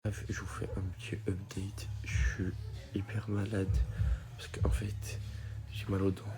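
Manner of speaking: talking with anesthetized mouth; numb mouth. Real, not acted. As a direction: numb lips after dentist. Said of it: "J'arrive pas à parler".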